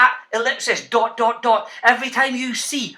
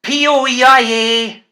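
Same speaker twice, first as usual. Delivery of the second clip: slow spelling; 6 dB louder, slower than usual. Shown as a demonstration. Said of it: "I'll say it first and you repeat it".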